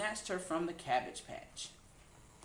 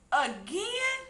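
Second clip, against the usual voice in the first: sighed; 13 semitones higher, 6 dB louder than usual. A narrator's reading. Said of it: "sighed Cindy".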